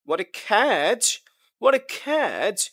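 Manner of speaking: exclamation swinging on "catch"; teacher modelling an exclamation on "catch"; exclamatory intonation. Shown as a demonstration. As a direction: stretch "catch" with a big pitch swing. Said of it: "exclamatory sentence".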